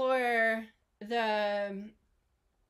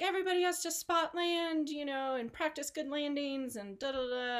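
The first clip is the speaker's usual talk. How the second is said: imitating radio instructor; 5 semitones higher than usual. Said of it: "he's on the radio".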